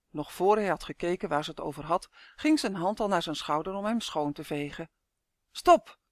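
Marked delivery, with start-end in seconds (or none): 5.5-6.0 high, loud, sudden warning; urgent hiss. A narrator's reading. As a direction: burst out sharply to halt someone. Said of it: "siste Malien". (fel sissend, hoog en luid)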